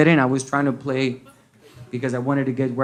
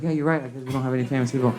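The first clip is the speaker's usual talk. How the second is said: quiet admission; 6 dB quieter, faster than usual. Retold or imitated. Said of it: "she's like".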